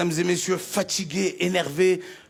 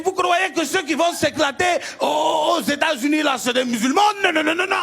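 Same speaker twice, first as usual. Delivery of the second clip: lightly voiced higher imam; preaching imam; 5 semitones higher than usual. Imam lectures worshippers, insistent preaching. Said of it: "il nous a dit".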